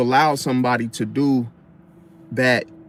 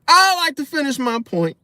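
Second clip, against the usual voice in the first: higher, louder, firm claim; with your chest; 13 semitones higher, 4 dB louder than usual. Shown as a demonstration. Showing the right way to ask to finish, firm and loud. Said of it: "say it with your chest".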